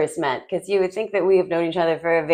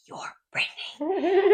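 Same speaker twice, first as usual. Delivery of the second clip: surprised recognition; 12 semitones higher, 6 dB quieter, slower than usual. Retold or imitated. Retold moment of recognition.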